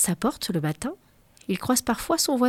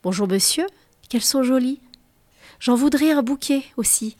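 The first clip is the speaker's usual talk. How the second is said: knowing lady; 4 semitones higher, 4 dB louder than usual. Acted. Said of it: "d'un air complice".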